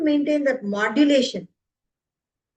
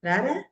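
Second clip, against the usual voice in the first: RARA short, swept upward at the end; changed intonation. Shown as a demonstration. Teacher showing how intonation changes, upturned RARA. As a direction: make RARA a rising question. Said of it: "the intonation changes".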